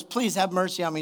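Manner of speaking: soft, mild plea for mercy; understated, hushed begging; quiet retold plea. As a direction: imitate a debtor pleading, softly. Debtor pleads in retold parable.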